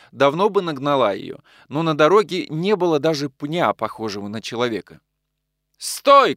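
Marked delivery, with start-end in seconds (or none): 5.8-6.4 high, loud halt to the driver; sharp shout. A narrator's reading. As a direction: cry stop to the coachman. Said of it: "крикнул Весенин". (резкий громкий окрик)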